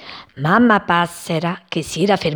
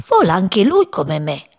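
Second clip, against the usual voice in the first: shouting. Acted. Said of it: "gridava mentre precipitava".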